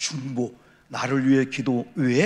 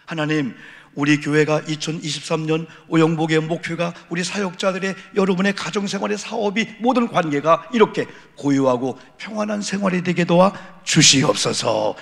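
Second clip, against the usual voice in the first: fervent prayer; 4 dB louder than usual. Real, not acted. Preacher praying for the congregation's peaceful life, fervent prayer.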